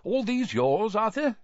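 high, good-natured question. A narrator's reading. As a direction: ask a friend genially. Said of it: "peered good-naturedly around".

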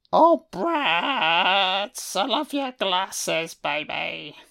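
a hint of a lovestruck fiancée; swooning Janet. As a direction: sigh it like a smitten girl.

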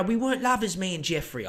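brief mock Cockney quote; hint of a Cockney impression; British Cockney accent. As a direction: lightly mimic her Cockney denial. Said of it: "she has that British Cockney accent".

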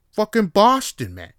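loud, high mock Boston yell; Boston accent. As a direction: bellow it like a Boston bro. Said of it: "proper Boston accent".

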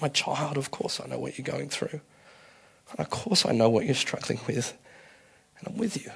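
soft, fond and a little teasing, as God; a gentle wink in the voice, speaking as a loving father; loving cheekiness. Pretend. God answering the doubter with loving cheekiness. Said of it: "with a loving cheekiness".

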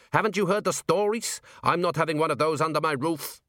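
lightly voiced indignant butcher; a hint of an offended shopkeeper; gruff butcher.

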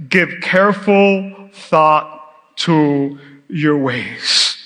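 slow, solemn Bible reading; scripture reading. Acted. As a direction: read each verse slowly and gravely. Reads scripture aloud.

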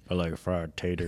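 hint of a mumbled backwoods voice; Karl impression. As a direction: lightly mimic the Sling Blade man. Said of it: "remember that guy?".

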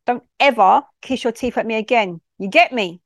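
stern warning in a mum voice. Acted. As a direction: lay down the law like a mum. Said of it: "I said this in my mum voice".

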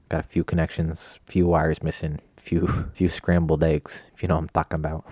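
put-on light, vaguely Italian New England gangster accent; slipping into vague accent. Joking about his brain, slips into vague gangster accent. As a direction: let a faint gangster accent creep in. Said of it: "What accent was that?".

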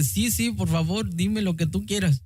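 mildly eager, pleading yes; eager consent. Retold or imitated. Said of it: "Yo con gusto".

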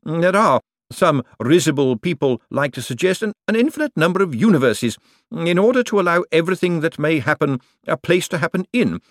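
high, scornful banker voice; withering put-down. A narrator's reading. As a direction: cut him down with sarcasm. Bent's sarcastic rebuke of Moist.

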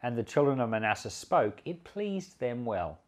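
measured, formal Bible reading; steady public reading of scripture. Acted. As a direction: read the passage aloud to the congregation.

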